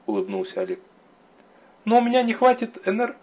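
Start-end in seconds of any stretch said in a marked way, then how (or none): 1.9-3.2 high voice breaking off mid word; cut off mid word. A narrator's reading. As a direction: stop herself mid word. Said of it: "прервала себя на полусловие".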